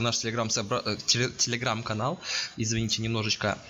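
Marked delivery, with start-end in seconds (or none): 0.0-2.2 stumbling over the word Telegram; tongue tripping on the words; tongue-tied. Real, not acted. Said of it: "чё-то язык заплетается".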